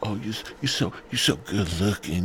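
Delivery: slow, drawn-out mock adoration; hammed-up fawning; ego-stroking flattery. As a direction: coo the compliments, stretching each one. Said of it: "You gotta stroke his ego".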